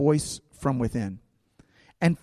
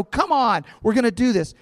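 high, urgent rallying call; rallying cry; 7 semitones higher than usual. Acted. The movie Moses rallies his people, rallying cry. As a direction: rouse the troops to action. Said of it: "this is when you want him to go".

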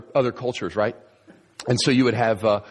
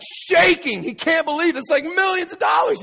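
much higher, louder, building excitement; overwhelmed shout; 3 dB louder than usual. Retold or imitated. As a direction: let it burst out in disbelief. Finder overwhelmed by treasure.

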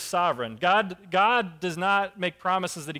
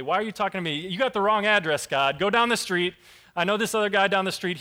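a touch louder, pushing the call away; protesting Gideon; 2 semitones higher, 4 dB louder than usual. Retold or imitated. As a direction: Gideon telling God he has the wrong man, half-joking protest. Gideon pleads his weakness to God.

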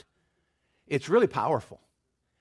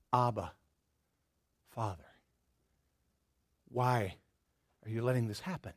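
anguished plea; 4 semitones lower, 7 dB quieter than usual. Acted. Jesus voiced crying out on cross.

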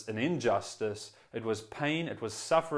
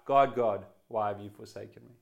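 sharp, louder cry of abandonment; despairing cry; 4 dB louder than usual. Retold or imitated. Preacher contrasting a despairing cry of Jesus, loud. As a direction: call out in despair, not trust. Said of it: "It would be a very different cry".

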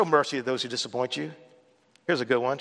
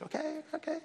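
self-calming; 12 semitones higher, 14 dB quieter than usual. Retold or imitated. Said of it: "I'm talking about mercy this week".

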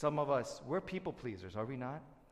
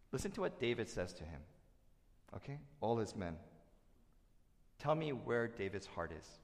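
ordinary talk

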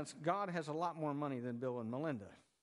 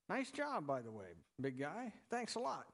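sarcastic aside, pitched up on the jabs; mock gratitude. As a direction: needle him lightly with fake thanks. Mock thanks to Adam for sin.

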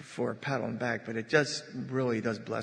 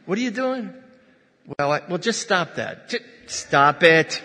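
blunt marriage counselor; 4 semitones higher, 11 dB louder than usual. Pretend. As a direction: play a comically blunt counselor telling someone off. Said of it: "Wouldn't I be a great marriage counselor".

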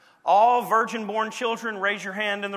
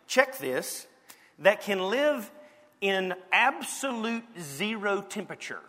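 ordinary delivery

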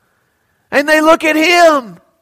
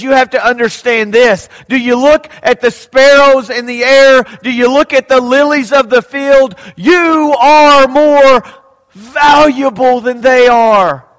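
preaching at full force; 4 dB louder than usual. Acted. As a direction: proclaim it to the whole hall. Jesus's words preached forcefully.

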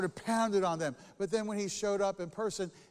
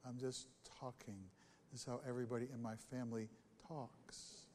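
defensive, softer; 6 semitones lower, 10 dB quieter than usual. Retold or imitated. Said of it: "I would say".

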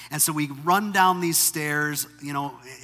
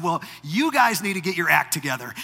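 a huffy, indignant snap at the guards; mild huffy jab; huffy retort. Retold or imitated. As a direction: brush them off, irritated and impatient. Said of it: "all huffy and puffy".

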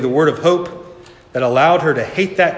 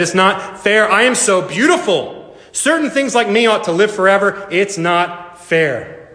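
raised-pitch wail, slowing at the end; indignant vain protest; 6 semitones higher than usual. A narrator's reading. Marigold protesting she is too beautiful to die, indignant. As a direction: complain high and aggrieved, dragging the last words.

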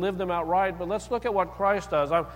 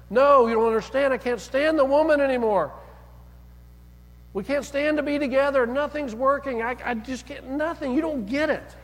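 exasperated outburst, higher and louder; frustrated; 6 semitones higher, 3 dB louder than usual. Retold or imitated. Husband insisting to the counselor he can't stay, frustrated and loud. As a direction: push back hard, voice climbing with each line. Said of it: "he's really getting frustrated".

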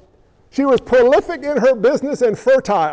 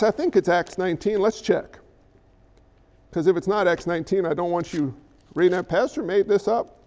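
quiet aside; 6 semitones lower, 6 dB quieter than usual. Real, not acted. Aside while checking the reference.

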